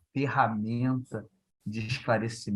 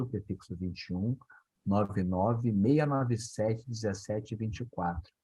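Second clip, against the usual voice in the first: slow and deliberate. Real, not acted.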